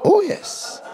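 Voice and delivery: high "Oh, yes" cried out; exultant cry. Real, not acted. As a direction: shout your amen up high. Preacher's exclamation after verse.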